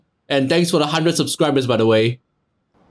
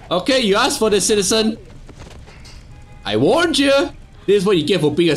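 slow theatrical villain menace; 3 semitones higher, faster than usual. Pretend. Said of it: "Pretend I'm a bad guy".

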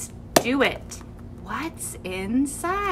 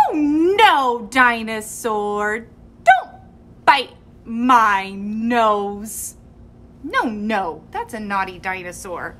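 mock scolding; 4 dB louder than usual. Scolding the biting dinosaur.

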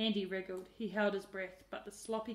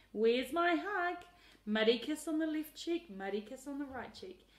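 exuberant; 5 semitones higher, 6 dB louder than usual. A narrator's reading. Aunt demanding kisses.

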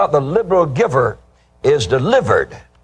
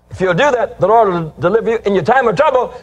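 excited preaching; 7 semitones higher, faster than usual. Acted. Preacher repeats promise higher, faster.

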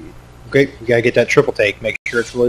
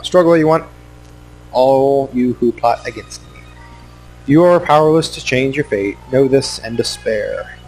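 megalomaniac rant. Pretend. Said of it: "like, a villain rant".

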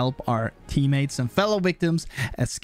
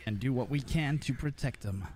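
heroic character voice; 12 dB quieter than usual. Pretend. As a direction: play the noble protector, understated. Continues Leland roleplay.

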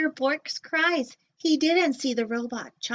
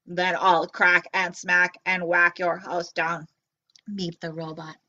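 low booming robot threat; 5 semitones lower than usual. Acted. Robot threatening Bork's house, low and booming. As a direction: growl the threat like a big metal robot.

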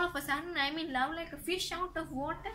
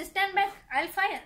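louder, higher warning shout; acted threat; 4 semitones higher, 6 dB louder than usual. Widow threatens the intruding suitor with revolver, shouting. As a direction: bark the warning at him.

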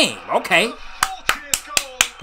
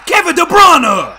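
slower, higher stretched yell of the name; long goal yell; 6 semitones higher, 7 dB louder, slower than usual. Real, not acted. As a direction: drag the name out in a big cheer. Celebrating the scorer's name.

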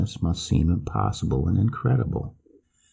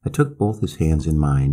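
usual speaking voice

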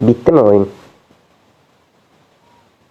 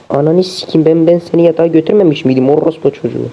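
exasperated scolding; 5 semitones higher than usual. Real, not acted. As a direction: tell off a brat who won't stay put. Scolding game baby.

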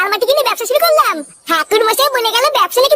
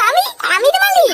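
shout; 5 semitones higher than usual. Acted. Caterer insists he is owner.

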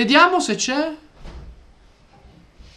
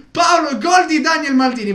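shouted; 4 semitones higher than usual. Real, not acted. Shouting goal news to friend.

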